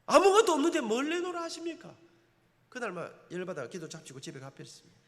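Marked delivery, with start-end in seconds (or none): 0.0-1.9 higher and loud indignant outburst; angry retort. Retold or imitated. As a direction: snap back at God in frustration. Angry retort to God in prayer.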